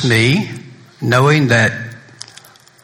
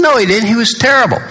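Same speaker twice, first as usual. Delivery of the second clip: mock emphatic retort; 12 semitones higher, faster than usual. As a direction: overrule her with hammed-up insistence. Retold banter contradicting wife.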